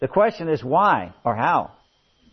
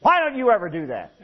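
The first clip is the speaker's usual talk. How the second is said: nagging wife; 5 semitones higher, 5 dB louder than usual. Acted. Wife scolds her husband.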